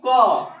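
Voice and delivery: K read as "क", not "kay"; letter sound for K. Shown as a demonstration. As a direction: say "क" as one open "kaw" syllable, falling. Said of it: "के को क्या पढ़ेंगे".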